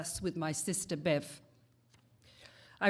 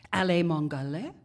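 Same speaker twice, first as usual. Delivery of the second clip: made-up language; 4 dB louder, faster than usual. Retold or imitated. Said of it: "So I responded in kind".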